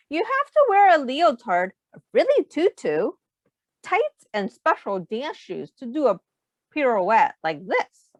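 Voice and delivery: lightly voiced bossy girl; Alicia instructing. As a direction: lecture like a know-it-all dancer. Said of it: "wondered Jamie".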